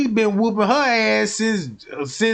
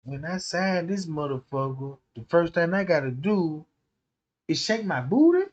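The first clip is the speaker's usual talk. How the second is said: low, smug boss voice; a lower, quieter take on a sleazy label boss; mock boss voice; 5 semitones lower, 5 dB quieter than usual. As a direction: do the boss like he owns you. Retelling the boss's contract demand.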